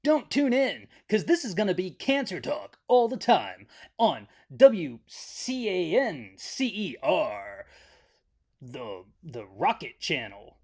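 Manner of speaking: a hint of a TV warning announcer; lightly voiced network promo; mock announcer. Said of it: "trigger warning on the poster".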